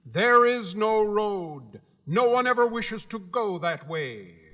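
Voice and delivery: high, proud little gatekeeper; Guardian of the Gates. Acted. Gatekeeper laying down the rules to Dorothy, high and proud. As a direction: announce your post with self-importance.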